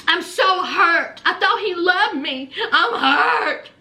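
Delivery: lightly hammed-up wounded voice; mock hurt. Girlfriend wounded that he doesn't love her, mock hurt. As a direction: play up the heartbreak a little.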